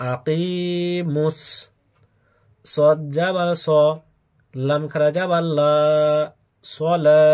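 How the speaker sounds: chanted letter-by-letter Quran drill; name each letter, then draw out the joined syllables; spelled-out recitation. Shown as a demonstration. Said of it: "বানান সহ উচ্চারণ করে". (বানান করে সুরে টেনে উচ্চারণ)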